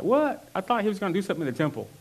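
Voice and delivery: squeaky high surprised what, then fast; a listener baffled that Jesus just leaves; incredulous what. Retold or imitated. Sermon listener voiced as surprised. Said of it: "He's like".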